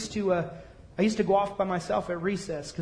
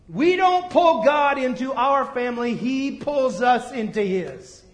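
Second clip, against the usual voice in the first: louder, then slowing right down; emphatic preaching; 4 semitones higher, 4 dB louder, slower than usual. Real, not acted. Preacher stressing God's adoption to the church. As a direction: land the point with weight.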